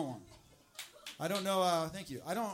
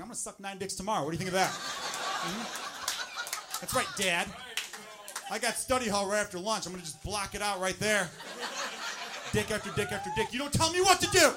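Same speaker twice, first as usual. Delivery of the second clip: put-on defiant teen; 2 semitones higher, 5 dB louder than usual. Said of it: "she's thinking".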